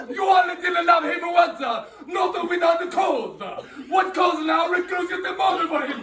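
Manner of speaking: high, heated stage outcry; hammed-up high-pitched public appeal; impassioned oratory. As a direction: cry out to rouse the crowd. Antony rousing the crowd.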